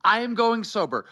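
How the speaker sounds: high-pitched, emphatic proclamation; defiant vow. Real, not acted. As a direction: swear it to the doubters, drawing out key words. Defiant vow of sobriety to doubters.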